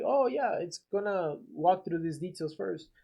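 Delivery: bright high oh, then easy; curious tone. Shown as a demonstration. Contractor to homeowner, curious confused tone. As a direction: sound curious, not defensive. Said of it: "use curiosity tone, like, act confused".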